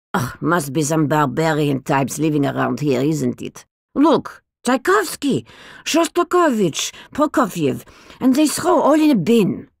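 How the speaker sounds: put-on grand, foreign-accented old lady, indignant; dotty old lady full of disdain; eccentric old woman. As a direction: scoff at the barbarians who bin good records. Old woman voiced in the story.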